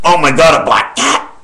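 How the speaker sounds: a sudden breathless whisper-shriek; startled. Acted. Spotting a black cat at home, sudden whispered shriek. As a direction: gasp it out as if you just saw it.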